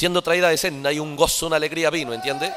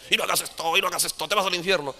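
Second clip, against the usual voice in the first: lightly acted, quieter scolding warning; mock threat; 3 semitones higher, 4 dB quieter than usual. Preacher mimicking those who frighten believers with hell, mock threat. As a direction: imitate someone frightening believers, softly.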